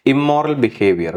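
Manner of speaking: ഇമ്മോറൽ ബിഹേവിയർ said slowly, ഇമ്മോറൽ stressed; slow model phrase. Shown as a demonstration. Teacher slowly models ഇമ്മോറൽ ബിഹേവിയർ for students. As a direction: spell out ഇമ്മോറൽ ബിഹേവിയർ for the class. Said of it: "teacher models phrase".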